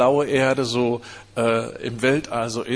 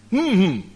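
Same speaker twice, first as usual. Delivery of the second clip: muffled hum; 4 semitones higher, 3 dB louder than usual. Retold or imitated. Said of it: "mit hm, hm wird man nicht errettet".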